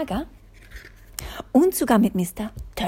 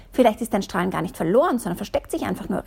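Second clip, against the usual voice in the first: fast, eager calling out; faster than usual. Acted. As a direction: rush it out hopefully. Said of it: "rief Mister Quatschkopf".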